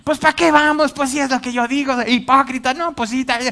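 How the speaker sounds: high, loud mock shouting back; angry retort. Spouse retorting in the car before church, shouting. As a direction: snap back in a heated quarrel.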